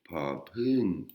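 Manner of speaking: popung with air puffed after each P; aspirated popung. Shown as a demonstration. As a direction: breathe out hard on the P of popung. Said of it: "de l'air qui sort".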